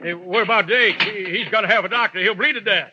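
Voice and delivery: pleading for the wounded man; urgent plea. Acted. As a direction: push hard, worried a friend will die. Begging help for wounded Jake.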